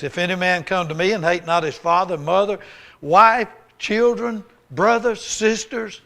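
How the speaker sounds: building scripture read. Acted. Reading scripture with rising force.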